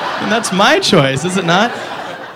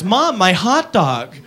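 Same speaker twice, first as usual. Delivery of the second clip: put-on whiny girl; 4 dB quieter, much slower than usual. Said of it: "she goes".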